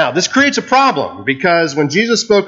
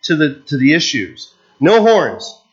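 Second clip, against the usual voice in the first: impatient interrogators; 4 semitones higher than usual. Retold or imitated. Voicing Luther's interrogators.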